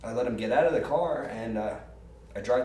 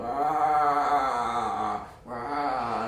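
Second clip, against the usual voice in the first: mock groans; 3 dB louder than usual. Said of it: "Marty's on the ground going".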